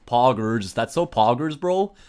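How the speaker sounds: lightly put-on American accent. Streamer hyping the game in a light American accent. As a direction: say it like an American bro. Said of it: "I have to say it in an American accent".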